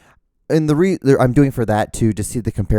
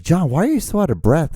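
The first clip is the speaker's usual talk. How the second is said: higher, swooping listener's question; mock questioning; 7 semitones higher than usual. Listener asks host about being breathless, mock questioning. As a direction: put on a pitched-up, exaggerated query.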